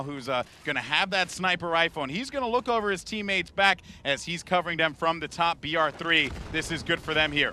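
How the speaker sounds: animated esports shoutcasting, jumping up on the key turn; live play-by-play. Real, not acted. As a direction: follow the action live.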